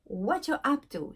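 "What you're" slurred together as "watcho"; Texas variant. Shown as a demonstration. Teacher shows what is heard in Texas, "What you're" as "watcho". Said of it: "Surtout au Texas".

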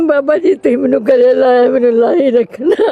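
loud, tearful pleading; real crying. Real, not acted. Grandmother begging the carer to keep her embraced, crying loudly. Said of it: "ਬਸ ਮਾਂ, ਰੋਣਾ ਨਹੀਂ".

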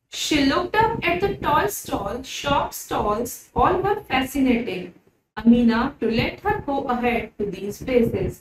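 slow, careful storybook reading; slow read-aloud. Acted. Teacher reading the story to her pupils, slow and careful. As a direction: read each word out slowly for the class.

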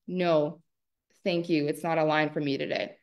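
P=A; calm firm no. Shown as a demonstration. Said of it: "That's not a powerful".

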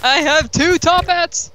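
high, slow, drawn-out crowing; gleeful boast. Real, not acted. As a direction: announce your treasure triumphantly. Gloating over second top hat.

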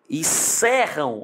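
"E cerram" said slowly, the vowel sounds held; slow demonstration. Shown as a demonstration. Teacher demonstrating the open E sound in "cerram" slowly. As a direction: draw out "cerram" to show the open E. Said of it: "Esse som do E aí".

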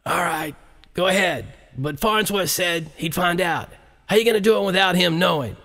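president's voice on a muffled recording. Acted. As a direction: play it as a secretly recorded conversation. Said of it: "the sound was a bit muffled".

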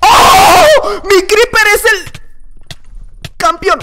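high, loud cry of triumph; excited shout. Real, not acted. Gamer shouting at the screen in victory, loud triumphant yell.

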